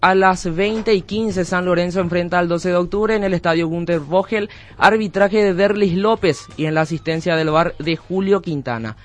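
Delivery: presentador deportivo anunciando la fecha; locución deportiva. Acted. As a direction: anuncia la cartelera de partidos con proyección radial. Presenta la agenda de partidos. (locución deportiva de radio)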